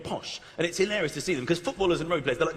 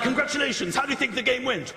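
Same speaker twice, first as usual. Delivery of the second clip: posh interviewer. Retold or imitated. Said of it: "they're so posh".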